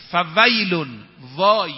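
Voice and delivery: a loud warning wail on فویل; loud woe. Real, not acted. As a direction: cry out the word woe loudly. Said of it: "سه تا ویل داره". (فریاد بلند فویل و وای)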